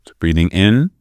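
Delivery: calm, measured guidance with long pauses; guided meditation. Real, not acted. Teacher guiding listeners to breathe into the belly, guided meditation. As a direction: lead them through the breath, leaving room between phrases.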